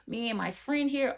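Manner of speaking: high, put-on customer-service sweetness. Friend placating security at the door, mock HR voice. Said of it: "starts talking in her H R voice".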